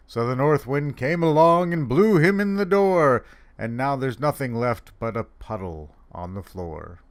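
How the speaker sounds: lilting rhymed tale with building drama; storytelling poem recital. Acted. Santa reading a snowman poem, in a storybook lilt. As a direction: tell the verse like a bedtime tale. Reads a funny poem aloud.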